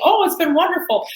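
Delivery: imitating a gushing customer. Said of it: "Expecting her to say".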